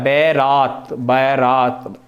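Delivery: बैरात said slowly and carefully; spelling demo. Shown as a demonstration. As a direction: draw out बैरात to show the vowel. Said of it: "ए की जगह क्या कर दिया". (बैरात धीरे और साफ़ बोलकर)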